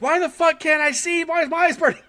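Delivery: high panicked squeal, eyes burning; freaking out girlfriend. Retold or imitated. Date voiced by the storyteller, high panicked squeal. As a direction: shriek it in a high mock panic. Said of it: "she freaks out".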